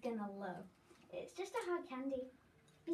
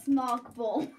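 loud; 12 dB louder than usual. Real, not acted. Announcing candy name loudly.

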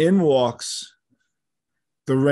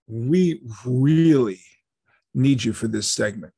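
desperate plea; 2 semitones lower, slower than usual. Retold or imitated. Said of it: "I heard a desperation in his voice".

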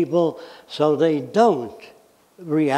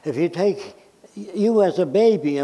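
ordinary delivery

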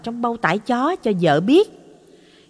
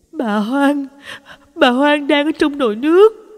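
higher, louder panicked cry; terrified stammer; 7 semitones higher, 4 dB louder than usual. A narrator's reading. Wife pointing at the pot for her husband, panicked cry. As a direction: gasp it out in terror, pointing. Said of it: "Bà run rẩy đưa tay chỉ".

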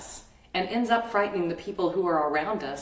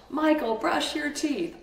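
higher, slow and louder angry order; mother losing her temper at son; louder yell; 8 semitones higher than usual. Retold or imitated. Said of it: "I kept getting louder and louder".

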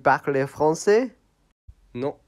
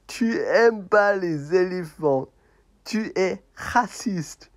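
mock accusing puppet; 5 semitones higher than usual.

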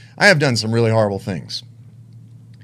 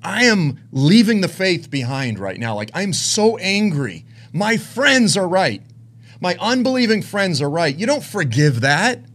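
raised, indignant inner rant; retold anger; 5 semitones higher than usual. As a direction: vent bitterly, stretching the key words. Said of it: "This was the anger that I had in me".

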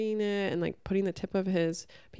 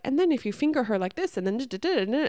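rapid-fire imitation; 5 semitones higher, faster than usual. Imitating the lady on the YouTube channel, rapid-fire delivery. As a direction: mimic a fast-talking presenter. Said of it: "and she's talking so fast".

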